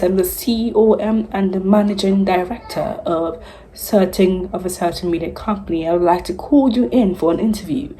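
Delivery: mock-British CEO making a formal call; imagined British boss, formally introducing himself; fake British accent. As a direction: lightly put on a British executive voice. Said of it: "I'm faking a British accent".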